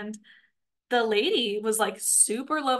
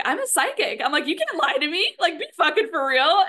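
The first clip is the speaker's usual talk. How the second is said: mildly heated, higher-pitched comeback; retold indignant challenge; 6 semitones higher, 5 dB louder than usual. Customer confronting the cashier over her denial, indignant. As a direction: call out a liar, voice pushed up.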